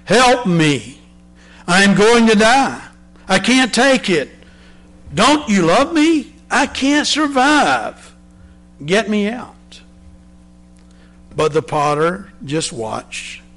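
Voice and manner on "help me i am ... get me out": a teacup in the furnace begging for rescue, frantic; panicked screaming. Acted. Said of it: "I began to scream".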